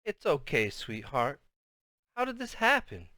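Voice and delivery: soft, hushed motherly comfort; quiet, tearful concern; near tears. A narrator's reading. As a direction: comfort gently, about to cry. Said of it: "sounded like she was gonna be crying".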